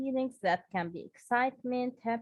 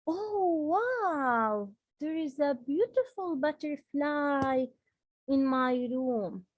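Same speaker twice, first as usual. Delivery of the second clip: bright, raised wonder at a butterfly; excited exclamation; 4 semitones higher, 3 dB louder, slower than usual. Shown as a demonstration. Teacher demonstrating an exclamation to the class, excited. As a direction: gasp it out like you just spotted it. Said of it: "let's talk about the exclamation".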